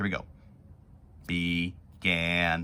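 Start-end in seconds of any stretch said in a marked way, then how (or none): 1.3-2.6 mechanical robot voice, split into syllable beats. Counting the syllables in a word aloud, saying it in a robot voice. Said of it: "let's say began like a robot".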